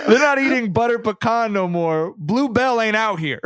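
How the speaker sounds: dramatic reading. Acted. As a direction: deliver it as mock-grave news. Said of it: "a dramatic Jenkins and Jones reading".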